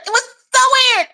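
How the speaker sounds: giggling disbelief; laughing. Real, not acted. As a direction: blurt it out again through laughter. Laughing disbelief at odd memory.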